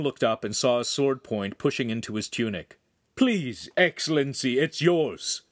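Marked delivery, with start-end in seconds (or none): 3.1-5.4 urgent, higher-pitched plea; pleading. A narrator's reading. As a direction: beg a nobleman to relent. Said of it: "Agostino pleaded".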